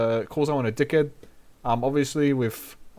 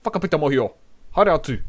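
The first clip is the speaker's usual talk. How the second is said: Whakapita Mohio shot back louder and higher; mock telling off; 4 semitones higher, 5 dB louder, faster than usual. Shown as a demonstration. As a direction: tell the know-it-all Whakapita Mohio to get lost. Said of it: "you can be like".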